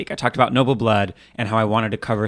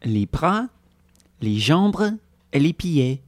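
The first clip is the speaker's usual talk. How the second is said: French accent; slower than usual. Shown as a demonstration. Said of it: "Let's see if I can do that in French".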